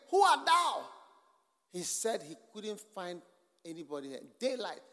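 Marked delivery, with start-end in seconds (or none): 0.1-0.9 loud, higher, commanding question; the voice of God shouting a second time; booming divine voice. A narrator's reading. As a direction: call out like a voice from heaven. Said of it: "the voice came again".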